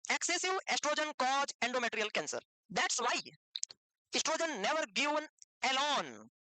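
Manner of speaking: very slow, word by word for note-taking; slow dictation. Real, not acted. Teacher dictating a note to students, very slow. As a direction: spell it out slowly so they can write.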